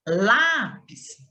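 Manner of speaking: "lápis" with a strong first syllable LÁ; stress on LÁ. Shown as a demonstration. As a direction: lean on the LÁ of "lápis", let PIS drop. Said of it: "a penúltima sílaba". ("lápis" com o LÁ forte)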